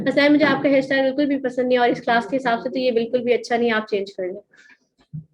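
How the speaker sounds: level, unvaried demo of a put-down; monotone criticism demo; flat monotone. Shown as a demonstration. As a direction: say it flat with no rise or fall. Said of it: "ये tone जो था ना, बिल्कुल monotone था".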